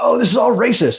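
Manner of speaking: put-on scream, very high-pitched and shrill. Retelling how a man pulled for testing after his wins started screaming: imitating his screaming. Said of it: "he starts screaming".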